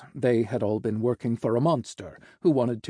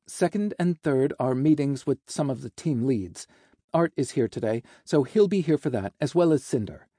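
lightly lifted, businesslike assistant; lightly voiced secretary; 3 semitones higher than usual. Secretary reading the boss the meetings, lightly bright. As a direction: run through the schedule helpfully.

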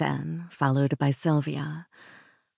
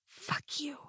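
very soft, higher whispered curse; 11 semitones higher, 13 dB quieter than usual. A narrator's reading. Secretary curses Alex while leaving, in a whisper. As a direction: whisper it as a parting retort. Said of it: "I whispered".

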